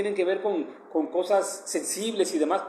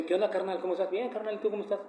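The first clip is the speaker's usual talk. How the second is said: brothers' greeting; 2 semitones higher, 6 dB quieter, faster than usual. Retold or imitated. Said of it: "Nos decimos así".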